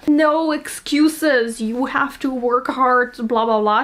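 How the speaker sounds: slow, drawn-out drill of hard-work slogans; mock hustle-culture pep talk, stretching the words; no excuses. Shown as a demonstration. Vlogger demonstrating the hustle-culture reading of the passage, mock no-excuses. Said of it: "You can read this in a".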